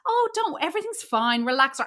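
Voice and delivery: lightly imitated breezy reassurance, starting high; airy-fairy. Film heroine soothing a tense man, lightly airy-fairy. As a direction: wave worries away in an airy mock voice. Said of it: "so airy-fairy and light".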